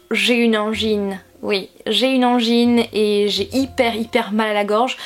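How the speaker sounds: hoarse, nasal sore throat voice. Real, not acted. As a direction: speak through a sore throat. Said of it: "ma voix part un petit peu en live ou encore si je parle du nez".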